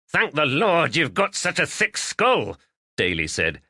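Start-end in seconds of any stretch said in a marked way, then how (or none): 0.1-2.6 high, teasing jab at a friend; voiced Irish-ish friend, lightly teasing; mocking quip. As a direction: rib him with a grin in the voice. Daly mocks injured farmer.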